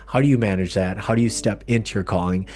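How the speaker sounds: projected podcast opening; podcast intro. Acted. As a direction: present the episode and welcome the guest. Scripted-sounding introduction to the show.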